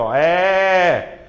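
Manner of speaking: long open É sound; open vowel demo. Shown as a demonstration. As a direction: stretch é wide open. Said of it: "diferente da semiaberta".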